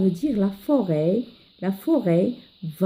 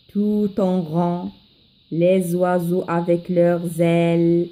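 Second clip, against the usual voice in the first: measured classroom poem reading; poem recitation. Acted. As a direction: read a children's poem aloud, carefully paced. Teacher reads the poem aloud.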